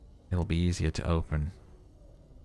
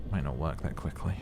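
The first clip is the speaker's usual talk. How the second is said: soft whisper to yourself; whispered aside; 4 semitones lower, 5 dB quieter than usual. Real, not acted. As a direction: breathe it under your breath. Aside muttered to self.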